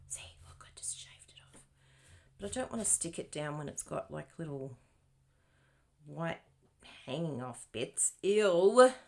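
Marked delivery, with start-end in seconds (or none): 0.1-1.6 conspiratorial whisper. Acted. Secretive fix of mistake. 8.2-8.9 loud grossed-out ew; disgusted ew. Acted. Reacting to hanging bits.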